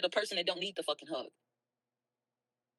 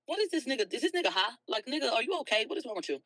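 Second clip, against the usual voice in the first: higher, disbelieving questions at a friend; mock baffled, is he high?; incredulous; 6 semitones higher than usual. Retelling her reaction to a friend refusing a hug, higher incredulous disbelief. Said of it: "And I'm like".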